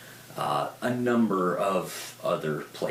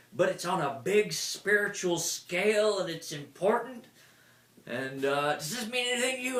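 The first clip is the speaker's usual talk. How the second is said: much higher intense seer voice; oracle's reading; 11 semitones higher than usual. Retold or imitated. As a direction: lay out the vision with urgency.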